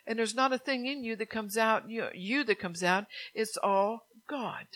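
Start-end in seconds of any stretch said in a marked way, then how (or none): 3.3-4.7 breathy whispered aside. Real, not acted. Preacher to congregation, hushed whisper. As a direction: drop to a whisper of awe.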